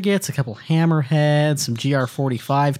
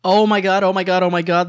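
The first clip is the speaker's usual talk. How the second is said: excited gushing; 3 semitones higher than usual. Real, not acted. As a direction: gush over it like a fan. Thrilled at the space battle.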